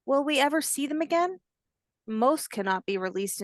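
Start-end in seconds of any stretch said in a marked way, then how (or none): 0.1-1.4 higher, a lightly voiced worried little one; young hatchling voice. Hatchling asks grandmother if rescued ones return, lightly childlike. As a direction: ask it like a small child.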